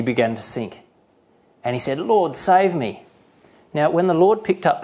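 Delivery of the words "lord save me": high, drawn-out cry for help; acted plea. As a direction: plead slowly as if going under, acted. Sinking man cries for help.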